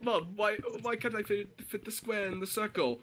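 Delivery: kid's question in a put-on British accent; mock British child. British kid asking Mom about shapes, put-on British accent. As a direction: lightly imitate a puzzled British child. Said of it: "why am I suddenly British?".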